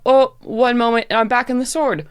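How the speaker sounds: lightly voiced weary diva sword; a hint of a dramatic diva; depressive drag queen. Sword Emily complains.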